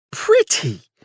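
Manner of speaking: high incredulous yelp. A narrator's reading. Charles yelping at Francis's reply, very high and shocked. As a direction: squeal it in disbelief. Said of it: "Charles yelped".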